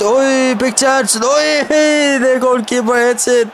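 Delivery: high cry breaking into a laugh; excited laughing shout. Real, not acted. Gamer sees the keeper hit it, laughing shout. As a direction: shout then laugh at the chance. Big chance, laugh heard.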